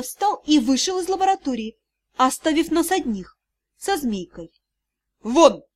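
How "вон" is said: hissed. Acted. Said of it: "прошипел Риан".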